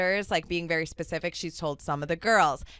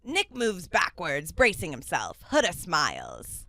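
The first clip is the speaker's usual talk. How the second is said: put-on Ian's Scottish accent. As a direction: narrate stage directions in tentative Scottish. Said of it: "I gotta get my Scottish accent going".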